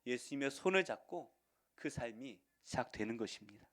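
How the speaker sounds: ordinary talk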